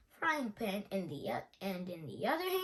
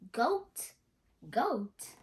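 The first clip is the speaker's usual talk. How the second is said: shocked; 7 dB louder than usual. A narrator's reading. Pirates disgusted at goat stew.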